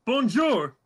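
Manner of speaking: bright-pitched shout from a window; calling out. Acted. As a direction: sing out a greeting to those below. Player calls out of tower window.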